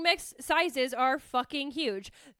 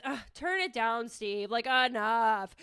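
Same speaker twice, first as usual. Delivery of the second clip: mock fed-up reaction, pitched lower; low, slightly weary dismissal; fed-up put-down; 4 semitones lower, slower than usual. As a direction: wave them off, slowing on the last word. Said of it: "if it was a man, I'd be like this".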